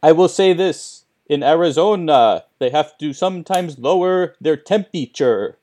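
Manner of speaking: spooky Count voice, mysterious; lightly voiced vampire count. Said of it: "Count voice continues".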